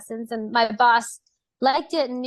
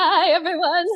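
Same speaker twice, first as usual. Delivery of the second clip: trembling, nervous voice with shaky vibrato; 6 semitones higher, 5 dB louder than usual. Retelling nerves at a first show: imitating nervous vibrato voice. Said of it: "I had vibrato when I was talking".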